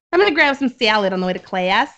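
imitated Buffalo girl with strong "ah" vowels; Buffalo accent. Recalling a Buffalo schoolmate, imitated Buffalo accent. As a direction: lightly mimic a Buffalo accent, flattened A's. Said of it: "really strong "ah" sound".

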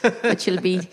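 lilting soft Irish nun voice, lightly done; a hint of a kindly Irish nun brogue; Irish nun accent. Teacher nun telling the girl off in a lilting Irish accent. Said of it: "that lovely lilting, softly, kindly accent".

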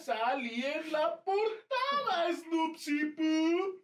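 high, hugely stretched-out squeal; gushing cartoonish boast; mock excitement. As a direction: drag every vowel out in a hammed-up high voice. Mocking excitement at being on camera.

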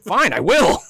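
loud, high grudging reply; loud mock huff. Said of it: "And he was like".

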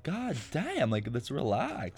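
high pitched god damn then slow calm plea; mock exasperation, slowing down to calm them; exasperated. Telling the insulters to relax, exasperated.

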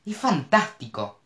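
high, slow, delighted exclamation; excited exclamation. A narrator's reading. Mo exclaims in delight in the speeding Porsche. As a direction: savor it, wind in her hair. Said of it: "exclamó Mo".

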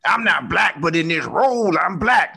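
military voice. Pretend. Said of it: "he has a military voice".

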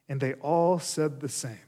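emphatic public Bible reading; scripture reading. A narrator's reading. Preacher reads the first scene to congregation, declaimed scripture reading. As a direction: read the passage out firmly to the room.

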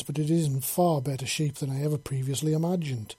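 silky, appraising praise; solicitous. Acted. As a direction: purr approval over him. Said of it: "in a rather solicitous tone".

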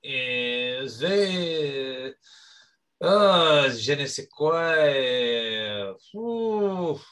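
light put-on Martinique French accent; lightly voiced French accent, hesitant and earnest; mock French Caribbean accent. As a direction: cohost goads him to show his real accent. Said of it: "an opportunity for you to open up".

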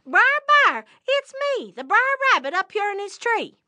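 high-pitched, eager rabbit voice; calling rabbit. Acted. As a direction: call down from the treetop. Rabbit calls from the tree.

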